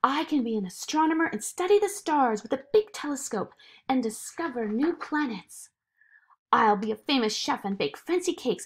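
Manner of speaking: lightly voiced eager girl, quick at first; Zoe, eager child. Zoe ignoring the voice to dream, lightly eager. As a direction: rattle off a dream with enthusiasm.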